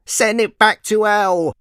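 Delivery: high, loud furious cry; angry wife. A narrator's reading. Farmer's wife yelling at the dragon, high angry shout. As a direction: spit it out like a scared wife. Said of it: "said his wife".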